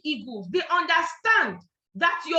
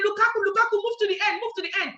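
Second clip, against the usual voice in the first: higher, mock cheering at the screen; football fan shout; 5 semitones higher, faster than usual. Fan watching football on TV, mock cheering. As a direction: urge the striker on like a fan. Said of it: "you're saying".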